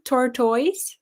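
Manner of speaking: "Tortoise" echoed with a questioning rise; questioned pronunciation. Retold or imitated. Checking how the friend pronounces it, questioning "Tortoise". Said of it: "that's how you pronounce them?".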